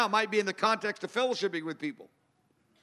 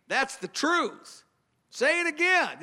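voicing the Spirit; 7 semitones higher, slower than usual. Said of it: "the presence of the Holy Spirit thinking".

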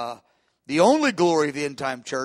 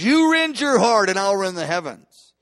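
starts high and loud on you, then settles; booming voice of God; 3 semitones higher, 5 dB louder than usual. Acted. Preacher voicing God to the congregation, loud proclaiming. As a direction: call it out as God's challenge. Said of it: "He goes".

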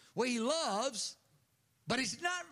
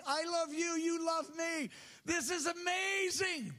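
joyful prayer. Acted. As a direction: start humble and rise into amazed joy. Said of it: "Relate to me this way".

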